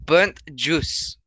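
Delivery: put-on German accent; German-accented parody voice; mock German accent. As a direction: repeat it in a fake German accent. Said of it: "went off of the accent from".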